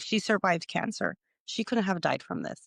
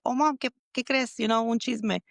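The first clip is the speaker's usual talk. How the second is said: retold chatty call; 5 semitones higher than usual. Voicing her call to her mom.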